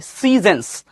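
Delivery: সিজনস as "SEE-zens", long first vowel; careful correct pronunciation. Shown as a demonstration. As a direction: model সিজনস with a weak second vowel. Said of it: "আমরা সুন্দরভাবে উচ্চারণ করবো".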